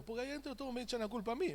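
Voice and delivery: queja aguda y atropellada de un diablo, apenas actuada; diablo llorón de chiste. Acted. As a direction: imita a un diablo quejoso, rápido y agudo. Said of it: "el diablo estaba llorando". (diablo lloriqueando en broma)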